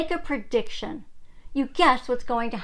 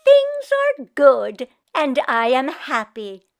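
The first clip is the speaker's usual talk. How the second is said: slow, louder, determined cheer; Meshka cheerful; 7 dB louder than usual. Acted. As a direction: say it brightly in Meshka's voice. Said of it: "she quickly said instead".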